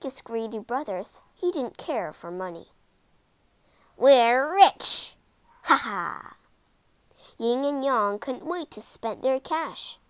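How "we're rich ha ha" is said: loud gleeful shout with laugh; gloating cheer. A narrator's reading. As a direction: crow about being rich. Greedy brothers gloat over fortune.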